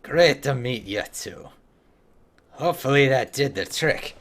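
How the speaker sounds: shaky grasp of a Scottish accent, hammed-up dwarf; amateur Scottish brogue for a game dwarf; attempted Scottish accent. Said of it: "learn to talk like the".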